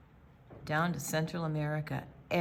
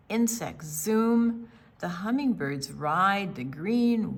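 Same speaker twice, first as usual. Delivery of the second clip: put-on gentle read-aloud narration for kids; story narration. A narrator's reading. Librarian reading to children, gentle storytelling voice. Reads picture book aloud.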